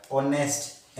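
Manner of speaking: ऑनेस्ट begun on the O vowel; silent H. Shown as a demonstration. Teacher gives an example, ऑनेस्ट with its H silent. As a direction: say ऑनेस्ट without any H. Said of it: "एच silent रहेगा".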